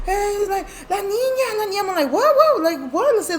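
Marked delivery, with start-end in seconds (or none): 0.9-1.8 very high imitated kid's wail; frightened child. Scared boy telling parent about a girl, imitated wail. 2.1-3.1 high, loud startled questions; re-enacted alarm, pitched way up; shocked questioning. Parent reacting to the boy, retold shock.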